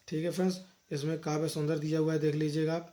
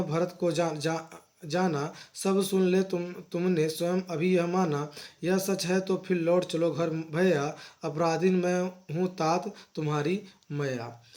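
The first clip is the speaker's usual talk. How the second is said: poem recitation. Acted. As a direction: recite the lines with a poet's cadence. Teacher recites the poem verses. (धीमा, लयबद्ध कविता पाठ)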